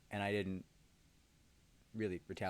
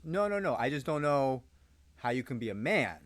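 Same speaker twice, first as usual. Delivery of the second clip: higher, louder mock scold; coworker's teasing done in a raised mock voice; 4 semitones higher, 7 dB louder than usual. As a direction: ham up her teasing. Coworker's quote in retold story.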